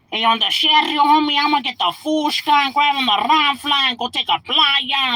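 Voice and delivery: high mock cholo voice cramming slang; stereotype cholo voice. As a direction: parody a stereotyped movie cholo. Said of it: "grab every fucking stereotype word".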